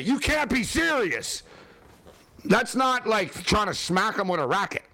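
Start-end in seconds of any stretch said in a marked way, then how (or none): 0.0-1.4 high, drawn-out outburst of disbelief; John McEnroe. Retold or imitated. Imitating the player's famous umpire protest, high mock outrage. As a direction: imitate an indignant player protesting a call, pitched way up. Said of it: "John McEnroe had a".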